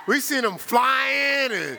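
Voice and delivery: high, slow, loud laughing call; laughing shout. Real, not acted. Preacher teasing the brother before the congregation, laughing shout. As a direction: crack up while calling it out.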